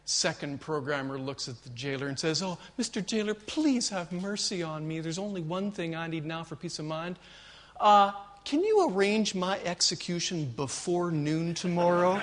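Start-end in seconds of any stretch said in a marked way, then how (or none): 2.4-12.2 a hint of a desperate prisoner pleading; meek plea. Second programmer begs the jailer for an early execution, meek and pleading.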